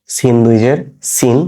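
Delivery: "সিন" with a dental s; "সিন" as a hissed s, not sh. Shown as a demonstration. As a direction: say both "সিন" with a thin s at the teeth. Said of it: "এটা দন্ত স দিয়ে".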